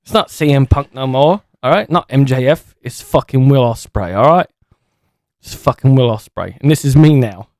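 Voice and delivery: put-on British lad accent, bruv; mock British geezer voice. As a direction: play a cocky British wrestler. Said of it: "trying to sound, like, British".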